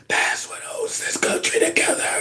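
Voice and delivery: breathy imitating whisper, high and soft; hushed mock whisper of the president; mock creepy whisper. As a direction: whisper it like a creepy old man. Mocking the whisper clip.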